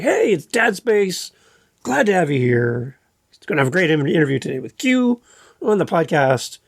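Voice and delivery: energetic host opening with a lift; upbeat podcast intro. Shown as a demonstration. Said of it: "instead of".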